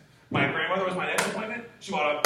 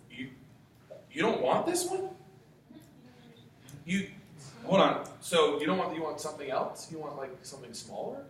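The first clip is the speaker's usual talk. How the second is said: confused disbelief. Retold or imitated. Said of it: "I was like".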